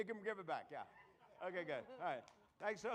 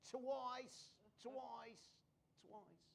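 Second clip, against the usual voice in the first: fading echo; 3 semitones higher, 8 dB quieter, much slower than usual. Acted. Fading repetition during fake accent.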